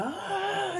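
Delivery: a high drawn-out "Ah" cry, not loud; mock loud ah. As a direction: let out a long high "Ah" of release. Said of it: "he let out this real loud".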